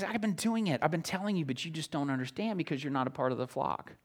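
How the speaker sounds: soft, hushed patient explaining; gentle Jesus quote. Retold or imitated. Preacher voicing Jesus softly to the unbelieving crowd. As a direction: speak it softly like a patient teacher.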